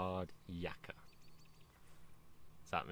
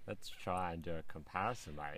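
imitating an Australian accent, lightly; attempted Australian accent. Learner showing off an Australian accent for comparison, mock Aussie. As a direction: have a go at sounding Australian. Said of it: "He's been trying his Australian accent".

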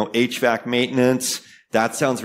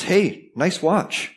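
slow, higher, drawn-out compliment; a stranger sweet-talking me about my watch; smooth flatterer; 5 semitones higher, much slower than usual. Retold or imitated. A stranger on the street flatters me, slow and smooth. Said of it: "and he says".

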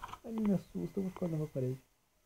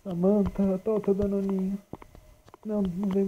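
loud teasing call; mock calling out to the monster; 3 semitones higher, 6 dB louder than usual. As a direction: call her over with the treat.

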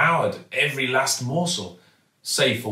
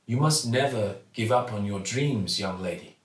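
kindly shopkeeper. Acted. Raj gives advice.

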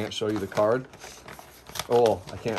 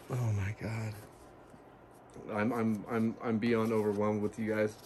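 hushed, tearful voice catching on the words; real tears starting, barely getting it out; softly overwhelmed, close to crying; choked up; 8 dB quieter than usual. Real, not acted. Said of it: "I get so emotional like a little baby".

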